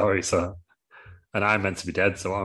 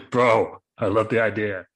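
bro voice; 5 dB louder, slower than usual. Acted. God as enthusiastic bro.

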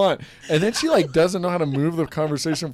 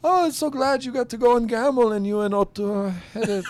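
higher, sweet mock mom voice; mimicking mom; 8 semitones higher than usual. Son imitating his mom's chirpy remark, higher voice. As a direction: lightly put on a cheery mother. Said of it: "she was like".

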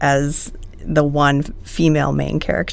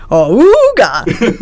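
silly sound effect; 5 semitones higher, 9 dB louder, much slower than usual. Pretend. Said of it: "I'll just make the sounds myself".

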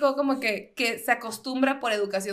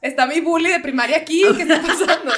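laughing mock outrage; 3 semitones higher, 5 dB louder than usual. Mock outraged reply to waiter.

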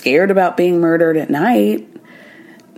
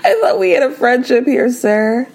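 mock offended; 5 semitones higher than usual. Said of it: "And Parvati's like".

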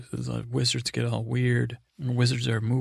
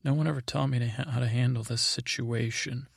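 lightly acted helpless dithering; mock helplessness. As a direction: imitate a man at a loss with a crying sister. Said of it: "still trying to be like".

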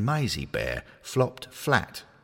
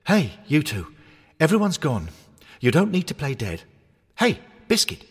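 higher, louder calling toy voice; a perky toy hornet calling out; cheery toy hornet; 8 semitones higher, 6 dB louder than usual. Acted. Cuddly hornet calls to toys.

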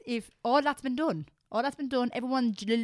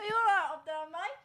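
put-on higher, cheery English accent; 10 semitones higher, 3 dB quieter than usual. Repeating the friend's stairwell call in a higher English accent. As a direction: echo the mate's question in a put-on English accent. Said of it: "we put English accents in America".

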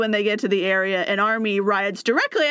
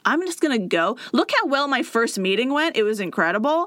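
overconfident; 3 semitones higher than usual. Retold or imitated. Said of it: "Josiah is so confident".

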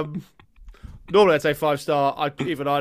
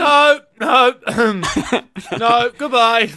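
loud Canadian refusal; 7 semitones higher, 8 dB louder, much slower than usual. Pretend. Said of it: "I'm a Canadian".

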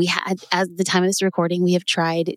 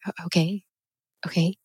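stunned disbelief; 4 dB quieter than usual. Retold or imitated. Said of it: "I was suspended in disbelief".

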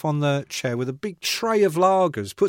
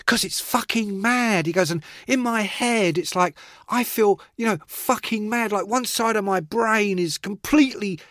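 a singer's voice; 5 semitones higher than usual. Retold or imitated. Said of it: "in his voice".

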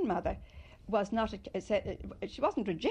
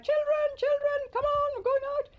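put-on calling out to the children, much higher and louder; a big call across the garden to round up the kids; retold shout; 6 dB louder than usual. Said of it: "she would just shout".

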